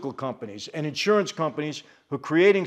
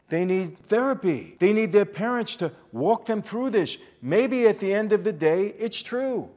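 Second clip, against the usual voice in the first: real impassioned outrage, pitch often lifted; all worked up; 3 semitones higher than usual. Real, not acted. Host urging parents to fight back for kids, all worked up. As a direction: plead the case, indignant and emphatic. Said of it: "I know I'm getting all worked up".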